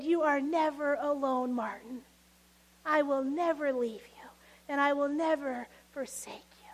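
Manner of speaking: soft, quiet comfort ending in a whisper; tender reassurance. Retold or imitated. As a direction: reassure him gently, barely above a whisper. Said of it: "the audible voice of his Jesus".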